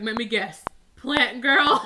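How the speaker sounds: put-on light Arnold accent, amused; playful mock-Arnold Austrian accent; Arnold Schwarzenegger accent. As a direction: toss it out as an Arnold imitation. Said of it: "His Arnold".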